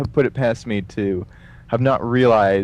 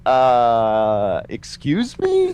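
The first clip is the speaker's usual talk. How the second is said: baffled receptionist; much slower than usual. Retold or imitated.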